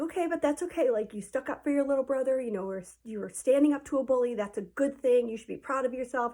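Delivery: lightly voiced encouraging parent; reassuring dad. Dad reassures the child after the fight, lightly imitated. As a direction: imitate a dad talking a kid round. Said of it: "my dad's like".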